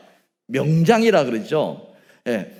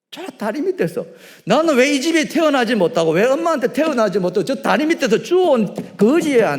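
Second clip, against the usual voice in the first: put-on high, loud childish lament; mock-sobbing child voice, high and loud; wailing child; 10 semitones higher, 7 dB louder than usual. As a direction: wail like a hurt little kid. Child lamenting being found.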